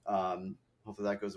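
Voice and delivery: blocked nose; talking with a stuffy nose. Real, not acted. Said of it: "you can probably hear that I'm a little stuffy".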